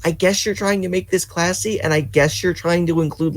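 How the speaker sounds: very high-pitched, strained protest; exasperated bafflement. Real, not acted. Player ranting about a game's voice choice, exasperated. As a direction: start way up high, easing down as you go.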